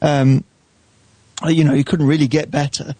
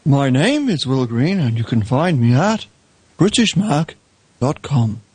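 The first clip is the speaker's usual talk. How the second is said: radio announcer voice; slower than usual. Acted. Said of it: "it's a better voice, mate. It's very, very, uh, Radio four".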